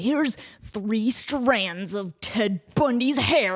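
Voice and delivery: slow, lightly voiced eerie guide; mock solemn guide. Museum guide showing relics, mock solemn and slow. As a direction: present it slow like a sacred relic.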